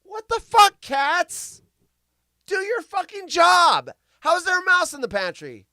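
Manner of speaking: high, loud exasperated yelling; loud, high, exasperated yell at the cats; retold yell at the cats. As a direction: yell at the useless cats in disbelief. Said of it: "And I'm like".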